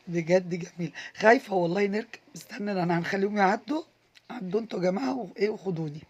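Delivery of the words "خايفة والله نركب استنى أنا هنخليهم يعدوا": nervous, scared. Real, not acted. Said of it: "بقول لكم أنا خايفة".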